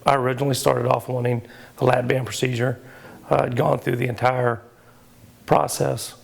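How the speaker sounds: hoarse voice after surgery; raspy, hoarse throat. Real, not acted. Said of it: "I'm hoarse and I apologize".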